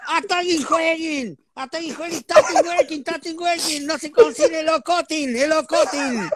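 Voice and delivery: high, loud mock Italian panic; hammed-up fake Italian yelling; mock Italian cook. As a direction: cry out like a panicked Italian cook in broken Spanish. Acted panicked Italian cook shouting.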